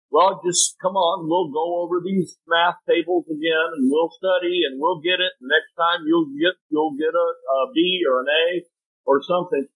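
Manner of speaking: encouraging parent. Retold or imitated. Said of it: "the encouragement is".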